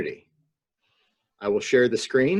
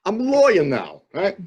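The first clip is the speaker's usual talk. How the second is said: mock know-it-all; 7 semitones higher than usual. Mock Facebook lawyer.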